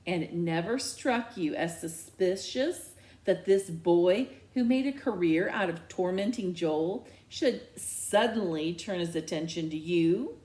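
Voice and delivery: a touch of pointed challenge; challenging. Acted. Dad challenging his daughter. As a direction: press her skeptically. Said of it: "Dad challenges".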